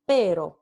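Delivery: Pero with one quick tap; single tap on the r of Pero; tapped r. Shown as a demonstration. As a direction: minimal pair tap. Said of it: "el par mínimo pero versus".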